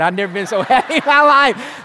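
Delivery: laughing. Real, not acted. Relief after snake leaves.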